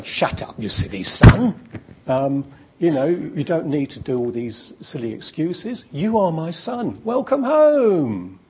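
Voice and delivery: a hammed-up delighted dad hugging his son; joyful father. Father welcoming prodigal son home, hammed-up joyful.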